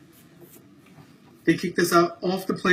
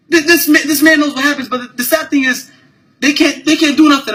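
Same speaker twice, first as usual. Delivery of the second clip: loud, raised frustration; heated venting; 5 semitones higher, 4 dB louder than usual. Real, not acted. Man venting to his camera about the crew, loud and heated. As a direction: let the anger spill out.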